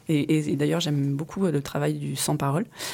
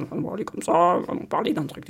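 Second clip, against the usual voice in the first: breathy hushed character voice; airy voice, nearly voiceless; whispery put-on voice. Shown as a demonstration. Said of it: "passer d'une voix à l'autre".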